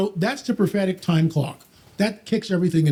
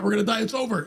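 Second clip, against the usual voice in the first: mock defeatist voice, higher pitched; lightly acted doom, pitch raised; Gehazi; 6 semitones higher, faster than usual. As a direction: play a man giving up, half in earnest. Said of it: "That's Gehazi's mindset".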